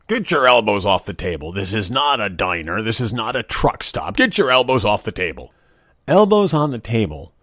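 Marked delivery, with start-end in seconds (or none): 0.1-5.5 lightly voiced stern father scolding; a hint of dad laying down the law. Dad scolding kids at the dinner table, mildly stern. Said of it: "That was my dad".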